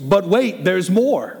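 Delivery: a light infomercial announcer; hint of a but wait sales pitch. Preacher comparing the prophet to infomercials, light announcer voice. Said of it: "like those infomercials".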